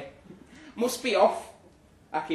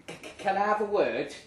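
nervous stammer; 5 semitones higher, faster than usual. Retold or imitated.

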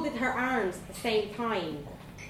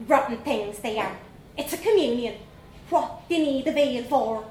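put-on young Dublin girl; 3 semitones higher, 5 dB louder than usual. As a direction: play a cheeky little Dublin girl. Vanessa scornful.

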